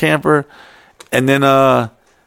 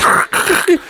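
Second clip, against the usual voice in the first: crackly mouth-made crinkle; imitated wrinkling noise. Man leaning on bamboo mesh, crinkling noise. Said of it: "you can hear it wrinkling".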